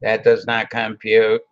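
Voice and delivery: lightly robotic voice. Pretend. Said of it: "I sound like a robot".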